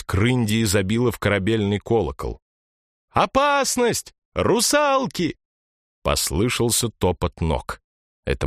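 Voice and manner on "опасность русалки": high, slow alarm call; alarm cry. A narrator's reading. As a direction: call out the danger. Girl rings alarm bell. (громкий тревожный крик)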